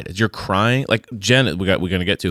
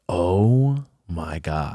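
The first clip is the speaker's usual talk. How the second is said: slow; 4 semitones lower, 3 dB quieter, much slower than usual. Retold or imitated. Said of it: "And I thought".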